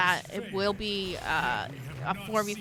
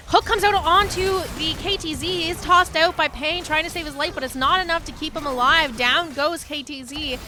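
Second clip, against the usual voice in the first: excited play-by-play; 5 semitones higher than usual. Real, not acted. Caster calls a kill.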